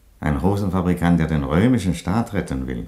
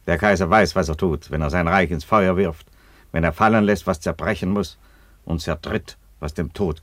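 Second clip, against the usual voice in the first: commanding outburst; 3 semitones higher, 4 dB louder than usual. Acted. Emperor forbids the marriage.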